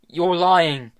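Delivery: high, loud repeated accusation; angry denial. A narrator's reading. Tom shouting again at Hester that she lies, loud. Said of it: "said Tom again".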